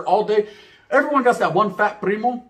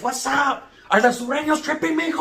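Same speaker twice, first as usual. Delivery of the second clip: grandma voice; 9 semitones higher than usual. Retold or imitated.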